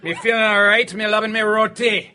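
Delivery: put-on sing-song Caribbean accent. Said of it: "you were doing that accent".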